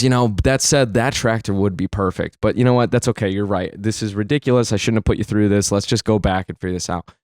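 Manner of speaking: low, resigned concession; lightly voiced defeat, subdued and low; dejected. Dad backing down from his own plan, dejected. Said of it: "he's all dejected at this point".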